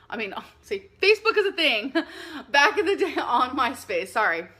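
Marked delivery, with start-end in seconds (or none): 1.0-4.1 laughing through the correction; laughing at herself. Real, not acted. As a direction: chuckle while fixing the slip. Laughs at own slip.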